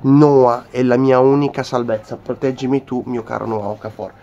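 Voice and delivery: ecstatic shouting fan; breathless italian goal commentary. Acted. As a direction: scream the name in rapture. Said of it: "fan hails Okafor ecstatically".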